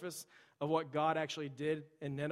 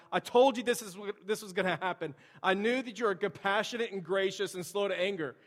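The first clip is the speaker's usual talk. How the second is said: higher, louder whiny protest to God; whining complaint; 4 semitones higher, 4 dB louder than usual. Acted. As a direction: complain like a sulking child. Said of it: "he's complaining and he's whining to God".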